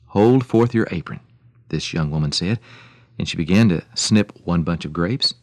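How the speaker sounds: lively, measured radio storytelling; story narration. A narrator's reading. Radio host telling listeners an old story, animated narration. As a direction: tell it like an old tale, with emphatic swells.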